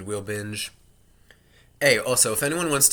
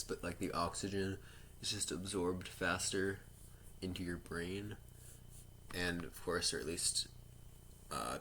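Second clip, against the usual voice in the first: quiet; 10 dB quieter than usual. Real, not acted.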